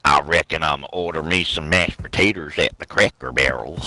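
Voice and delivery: playful fake Southern country accent; hillbilly accent. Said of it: "I'm Jed Clampett from the fucking Hillbillies".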